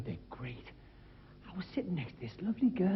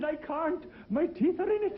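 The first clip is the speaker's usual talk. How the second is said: fan's punchline; 10 semitones higher, slower than usual. Retold or imitated. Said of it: "He said".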